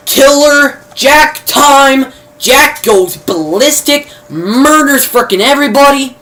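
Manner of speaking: slow, loud, high announcer boom; a big trailer-voice build-up; hyped announcement. Acted. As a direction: draw it out like a movie trailer. Hyping Jack's rampage.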